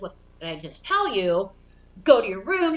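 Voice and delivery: put-on mom sending the kids away; imitating angry mom. Mom back in the room, ordering the kids to their room. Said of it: "She's pissed".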